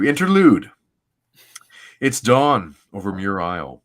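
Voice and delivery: measured, dramatic comic-book narration; story narration. Acted. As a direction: read it like a solemn, grand opening. Reads comic narration aloud.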